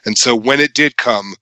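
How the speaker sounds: serious movie narration. Retold or imitated. Podcaster mocking the hero's epic voiceover, grave narrator tone. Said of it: "serious narration from main hero guys".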